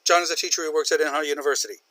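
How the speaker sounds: rushed straight into the second sentence; don't stop between the sentences; run-on, no pause. Shown as a demonstration. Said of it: "John is a teacher, period".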